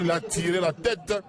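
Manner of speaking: ordinary delivery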